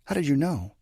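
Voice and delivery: put-on high, eager girl's voice; rapid-fire questioning. A narrator's reading. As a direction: ask it high and urgently. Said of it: "Bianca asks in rapid succession".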